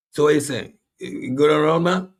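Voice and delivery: high street voice asking; slangy local caller. Retold or imitated. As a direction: toss it off like a local guy. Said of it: "they come and say".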